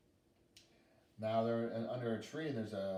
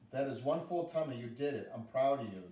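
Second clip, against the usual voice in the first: put-on a touch louder, gently proud girl; proud little girl; 3 semitones higher, 5 dB louder than usual. Girl praising the bear after fishing, proud. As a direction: cheer him on warmly. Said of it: "the little girl says to the bear".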